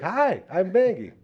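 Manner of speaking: high, slow drawn-out dog voice; Maggie. Retold or imitated. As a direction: voice a sweet dog saying hello. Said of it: "She's like".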